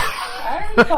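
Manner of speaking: high, slow echo of the impression; Harry Potter. Friend echoing the bad impersonation, high and drawn out. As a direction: stretch it out in a high, put-on voice. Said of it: "you did your Harry Potter impersonation".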